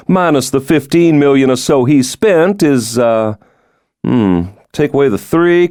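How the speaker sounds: teasing about his rich father, pitch lifted; lightly voiced president. Stoddard doing mock math.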